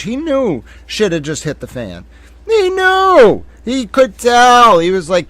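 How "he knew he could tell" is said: high, emphatic exclamation; excited realization. Real, not acted. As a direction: pitch jumps up, words punched out. Excited reaction to the exchange.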